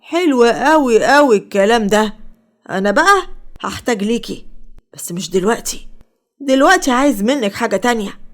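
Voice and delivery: slow, sly, knowing delivery. Acted. Selim scheming with Salma, slow and sly. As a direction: savor each word like a schemer. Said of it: "سليم ابتسم بخبث وقال".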